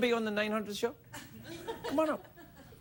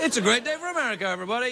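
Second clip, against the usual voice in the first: showman announce; 5 semitones higher, much faster than usual. Acted. Host's signature opening.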